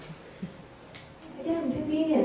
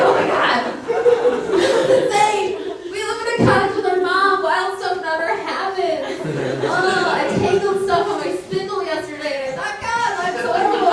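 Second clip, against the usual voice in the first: put-on girls freaking out; 3 semitones higher than usual. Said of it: "They're like".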